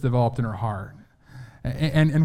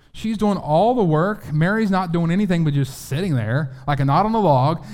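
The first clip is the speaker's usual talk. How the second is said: indignant Martha; 4 semitones higher than usual. Acted. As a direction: play up the aggrieved sister, pitched up. Voicing Martha's complaint about Mary.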